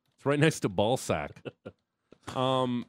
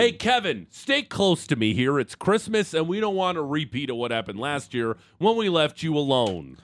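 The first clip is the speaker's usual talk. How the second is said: parent warning Kevin; 4 semitones higher than usual. Pretend. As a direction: warn the kid like a fussy mom. Parent scolding Kevin in Home Alone.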